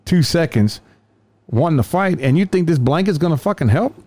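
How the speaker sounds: can you believe this guy, to partner; incredulous. Retold or imitated. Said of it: "I'm like".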